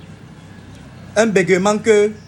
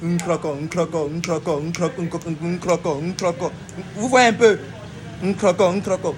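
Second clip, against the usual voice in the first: repetition stutter; 3 semitones lower than usual. Shown as a demonstration. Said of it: "il veut dire crocodile".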